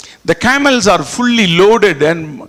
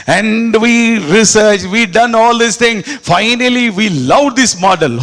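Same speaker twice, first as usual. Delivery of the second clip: mock proud buyer; 4 semitones higher than usual. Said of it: "Oh, don't say that".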